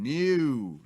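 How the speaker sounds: loud, high, drawn-out mock protest; hammed-up cry of refusal; protesting outcry. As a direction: wail it out in mock objection. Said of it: "are saying".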